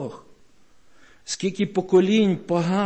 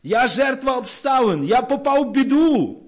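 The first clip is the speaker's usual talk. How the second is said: self-pitying cry; 8 semitones higher than usual. Retold or imitated. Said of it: "ми кричимо".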